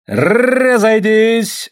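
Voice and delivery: high, loud, very slow drawn-out order; long police shout; shouted command. A narrator's reading. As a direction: bellow at the crowd to disperse. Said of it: "раздался крик".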